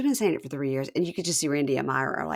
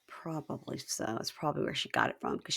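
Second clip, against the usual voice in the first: much softer unvoiced gossip; whisper; 2 semitones lower, 10 dB quieter than usual. Real, not acted. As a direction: hush it like sharing gossip. Catty whispered aside reply.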